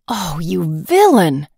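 slow, indignant huff in a put-on voice; huffy outrage. Princess scolding the swineherd, indignant huff. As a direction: spit it out like a spoiled princess. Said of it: "huffed the princess".

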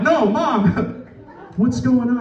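high, laughing disbelief; laughing protest. Retold or imitated. Son laughing in disbelief at his mom's gift. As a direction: crack up while begging mom to explain.

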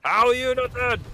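high, loud disbelief; exasperated outcry. Real, not acted. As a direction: cry out at an enemy who won't die. Exasperated at enemy surviving.

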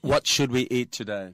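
very slow and loud, each word spaced out; slow careful model sentence. Shown as a demonstration. Host models the question for radio listeners, slow and loud. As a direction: spell the English question out slowly for a learner. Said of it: "เราจะถามว่ายังไง".

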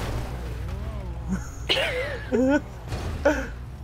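soft, long wheezy laugh. Real, not acted. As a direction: let laughter trickle out quietly. Laughs after the wow.

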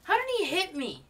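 loud fast high outraged shout; raging gamer. Real, not acted. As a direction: yell in disbelief. Angry disbelief.

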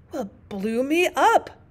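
panting, slow breathless exclaim; out of breath. Acted. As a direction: gasp it out, out of breath. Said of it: "panted the queen".

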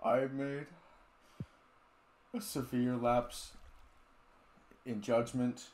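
hammed-up somber YouTuber apology; mock apology video.

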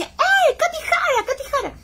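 high, loud call of her name. Retold or imitated. Stranger on the train calling out to her, high and loud.

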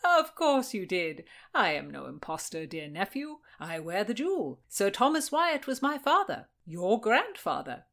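lightly voiced, with high emphatic bursts; insistent uncle. Uncle proving his identity to his nephew, insistent. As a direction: insist on your kinship.

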